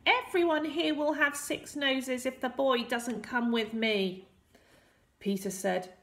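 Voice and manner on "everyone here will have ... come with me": high squeaky warning; Rumpelstiltskin. A narrator's reading. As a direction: warn them all in a little villain's high voice. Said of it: "Rumpelstiltskin warned".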